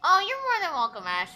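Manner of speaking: bright, loud burst of thanks; excited. Real, not acted. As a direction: gush the thanks out high.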